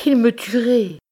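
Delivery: high, loud cry of fear; terrified cry. Acted. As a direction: blurt it out in panic. Terrified wife fears jealous husband.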